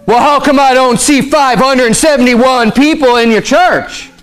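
lightly acted scoffing outsider; lightly voiced scoffer. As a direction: draw out the figure as a mild mock doubt. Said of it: "the scoffer might come and say".

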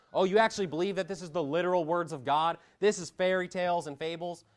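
mocking scoff. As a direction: sneer like a skeptic.

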